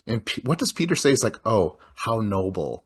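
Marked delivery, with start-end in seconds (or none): 1.4-2.8 slow, mock-calm reply; oddly calm. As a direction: imitate his unruffled answer, drawn out. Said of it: "he's oddly calm".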